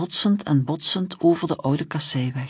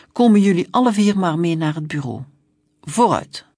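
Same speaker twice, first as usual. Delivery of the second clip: louder, commanding officer voice; stern policeman; 4 dB louder than usual. Acted. Young policeman ordering the children to the station, stern and loud. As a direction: lay down the law to the kids.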